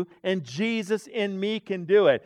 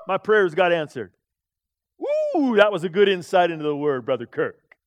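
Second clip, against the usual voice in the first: louder, proud self-congratulation; self-satisfied thinking; 6 dB louder than usual. Retold or imitated. Preacher imitating his own proud thoughts, loud and smug. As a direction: act out puffed-up pride. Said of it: "I'll just start thinking".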